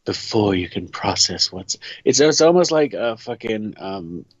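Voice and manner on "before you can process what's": slightly lowered, sultry reading voice; understated seductive narration; sexy narrator. Acted. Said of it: "get into my sexy narrator voice".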